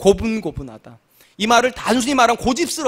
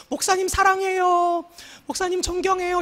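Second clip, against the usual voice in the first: adoring congregant; 9 semitones higher than usual. Retold or imitated. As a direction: gush like an admiring churchgoer. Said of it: "사람들이 주변에서 그런단 말이". (높고 느린 감탄조 찬사)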